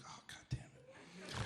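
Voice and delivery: very soft, slow muttered curse; hushed, drawn-out exasperation; resigned dismay. Retold or imitated. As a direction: curse under your breath. His dismayed aside on the phone.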